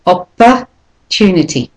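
"Opportunity" split after a weak second syllable, the rest stressed; "Opportunity" modelled in pieces with a schwa. Shown as a demonstration. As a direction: break it as oppa, tunity in "Opportunity". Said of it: "there's the schwa there, the de-stressed".

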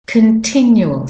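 continual opening "kuhn", stress on TIN; schwa first syllable. Shown as a demonstration. Teacher showing the schwa, "kuhn" in continual. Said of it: "the O in continual".

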